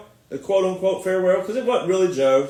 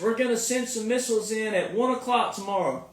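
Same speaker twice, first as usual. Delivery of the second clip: mocking quote; 6 dB quieter than usual. Mocking Iran's warning.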